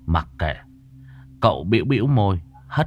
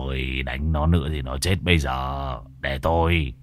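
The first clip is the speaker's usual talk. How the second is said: lower, quieter anxious plea; lightly voiced helper; 7 semitones lower, 4 dB quieter than usual. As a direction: warn the master urgently. Môn Phọt voiced. (giọng Môn Phọt trầm, lo lắng)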